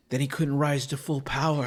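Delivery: retold line with a touch of portent; odd dramatic delivery. Man in group answering about his boss, oddly dramatic. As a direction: let it land as a strange, weighty realization. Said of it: "Why did you say it like that?".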